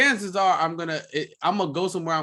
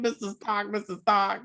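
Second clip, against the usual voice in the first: imitated movie plea; 4 semitones higher than usual. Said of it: "when he said".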